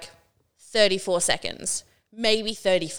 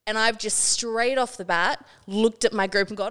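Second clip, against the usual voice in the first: usual speaking voice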